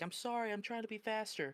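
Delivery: mock crying, high and tearful. Retelling how a fired worker apologized through tears: imitating someone crying. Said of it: "she's sitting there crying like".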